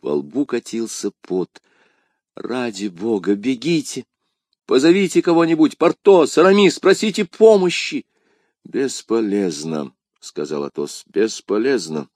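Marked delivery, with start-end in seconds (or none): 2.4-8.0 high, loud urgent shouting; frantic appeal. Acted. D'Artagnan sends friends for help, frantic cry. 8.6-9.9 hopeless resignation. Acted. Athos gives up hope. 11.1-12.1 hopeless resignation. Acted. Athos gives up hope.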